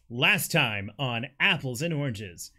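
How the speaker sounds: slow dramatic announcer intro; fighting game announcer. Acted. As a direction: boom it like a TV announcer. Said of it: "Announcer voice".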